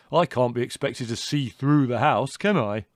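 loud self-justifying protest; indignant. A narrator's reading. Son excusing himself to his mother, indignant. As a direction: throw it back indignantly, loudly. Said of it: "said Leslie indignantly".

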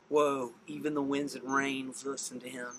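a touch of stunned quiet; hushed awe. Acted. Disciples watching the storm stop, hushed awe. Acting awestruck disciples after calm.

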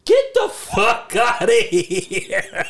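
slow, drawn-out laughing disbelief; slow laughing get outta here. Real, not acted. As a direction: stretch it out in amused shock.

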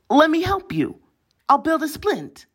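put-on high, pleading boy voice; high eager voice. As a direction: jump up high, eager to please. Frog Boy eager after crying.

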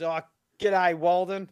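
clumsy Australian impression; Jim Jeffries. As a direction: attempt a hearty Aussie greeting. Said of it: "That's a horrible impression".

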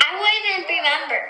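real, spontaneous outburst; blurted protest. Real, not acted. Blurted, then repeated after "Huh?.

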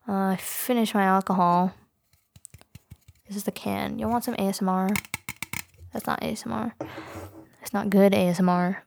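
tipsy, loose and giggly. Real, not acted. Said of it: "I came on here a little bit tipsy".

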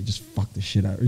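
soft low hushed advice, not a real whisper; lightly imitating a quiet tip; retold whisper. Costar quietly coaching during the scene, hushed. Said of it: "she's whispering".

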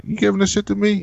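high, surprised disbelief; can't believe the gift; stunned question. Retold or imitated. Jorah stunned by sword gift.

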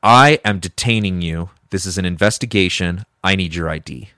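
retold firm, official police order; measured mock police authority; intimidating cop. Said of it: "He's totally being intimidating".

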